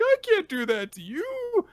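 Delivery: a lightly acted tearful boy; mock crying. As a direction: squeeze it out as if choking up. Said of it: "He starts crying".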